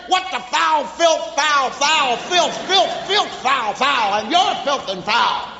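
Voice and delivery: a string of punched-out stand-in swear words; mock cursing. Parent cursing at a grown person, mock tirade. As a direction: spit out each word like a curse. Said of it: "you'd have cursed".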